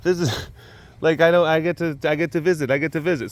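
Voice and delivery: high, eager put-on voice for an excited big cat. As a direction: play the thrilled cat who gets a visit. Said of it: "he's like".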